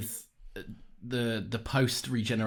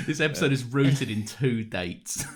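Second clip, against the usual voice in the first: laughing; slower than usual. Real, not acted. Laughing at dated joke.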